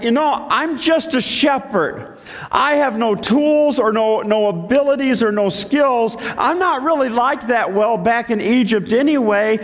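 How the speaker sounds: lightly voiced reluctant shepherd; hesitant Moses. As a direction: plead your way out of the job. Moses protests to God.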